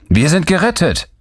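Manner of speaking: high, jubilant exclamation; excited cry. A narrator's reading. Gutenberg tells the others they are saved, crying out. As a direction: cry it out at a leaping high pitch. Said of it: "rief er laut".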